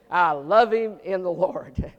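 slow, syrupy religious tone; pious churchy drawl. Retold or imitated. Pastor mocking a pious excuse, slow and syrupy. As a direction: say it like a sanctimonious church member. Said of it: "You ever say that?".

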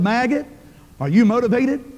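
mock drill sergeant shout; drill sergeant bark. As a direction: bark it like a DI nose to nose with a recruit. Drill sergeant yelling at recruit.

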